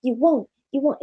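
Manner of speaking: hammed-up crackhead taunting, pushy and nagging; lightly voiced inner tempter daring her. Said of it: "My voice sounds like a New Jack City crackhead".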